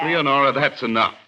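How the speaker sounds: stern, loud rebuke; sharp angry. Acted. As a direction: cut her off firmly. Husband stops wife's taunts.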